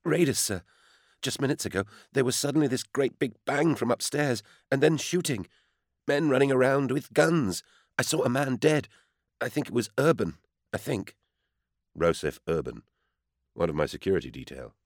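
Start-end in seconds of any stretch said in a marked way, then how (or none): 0.0-11.2 put-on much higher, frightened young maid; a terrified servant girl reporting to her master; panicked maid. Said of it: "her voice breathy with panic".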